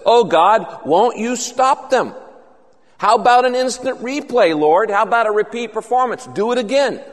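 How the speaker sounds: earnest plea to God, pitch lifted; pleading prayer. Acted. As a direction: plead with God to act again.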